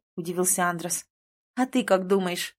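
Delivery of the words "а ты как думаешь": ordinary delivery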